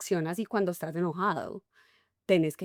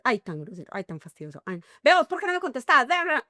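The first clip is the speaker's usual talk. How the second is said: annoyed nagging; 4 semitones higher, faster than usual. Retold or imitated. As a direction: needle him for not answering, rising to a high nag. Wife nags silent husband.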